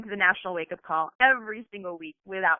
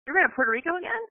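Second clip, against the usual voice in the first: incredulous family; 5 semitones higher than usual. Retold or imitated. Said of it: "They're like".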